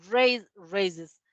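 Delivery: raises with the ending said as iz; raises, final syllable iz voiced; demo endings. Shown as a demonstration. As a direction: say raises ending in a clear iz sound. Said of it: "El sonido va a ser con I Z".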